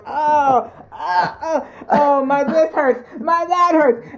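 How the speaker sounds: mock groaning over every ache; imitating achy husband. Wife mocks husband's aches, mild mock groan. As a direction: whine like a creaky old man getting up. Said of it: "he's always".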